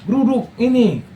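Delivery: high, slow mock rallying cry; mock agitator call. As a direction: voice a crowd-stirrer, lightly. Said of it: "Bukan mereka suruh".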